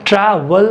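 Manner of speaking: ट्रैवल broken into TRA, WAL; syllable by syllable. Shown as a demonstration. Teacher showing first and second sound, ट्रैवल split as TRA, WAL. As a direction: say ट्रैवल as two separate beats, TRA then WAL. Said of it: "ए पर पहला sound".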